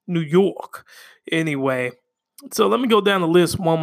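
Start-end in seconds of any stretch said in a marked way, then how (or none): 0.1-0.9 hammed-up New York accent. Shown as a demonstration. Host repeating it in a mock New York accent. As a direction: lean into "New York" like a local. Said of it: "like I'm from, like, New York".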